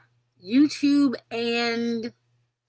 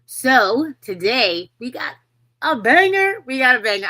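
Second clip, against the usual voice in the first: excited hype; 3 semitones higher, 7 dB louder than usual. Real, not acted. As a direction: build it up, then burst. Hyping the guest.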